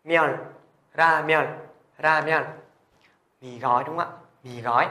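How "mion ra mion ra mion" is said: "Mion" as one syllable ending in n; đọc mẫu. Shown as a demonstration. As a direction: model "ra mion" in separate, measured syllables. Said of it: "với N". (đọc mẫu "ra mion", tách từng tiếng)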